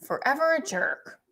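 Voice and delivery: Forever a Jerk sung out high like a shop sign; store name announced. Shown as a demonstration. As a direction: Forever punched as a brand name. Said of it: "It should be a store called".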